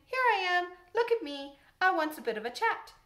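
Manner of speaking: high, loud voice for a chatty bird; robin's chirpy call. Acted. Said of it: "That's same as saying".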